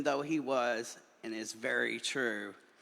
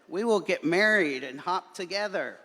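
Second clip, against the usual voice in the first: bright, higher and louder together; excited bunny proclamation; joyful announcement; 6 semitones higher, 7 dB louder than usual. A narrator's reading. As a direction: announce it happily.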